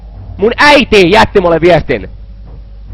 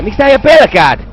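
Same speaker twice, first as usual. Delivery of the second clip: exasperated outburst; 5 semitones higher, faster than usual. Real, not acted. Player fed up with a scared man, exasperated cry. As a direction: burst out with the question, pitch up. Same question, now bursting out.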